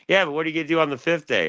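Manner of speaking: high sing-song mom voice, lightly mocking. Mother on the phone doubting her son's sobriety, high sing-song. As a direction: needle him like a mother who knows.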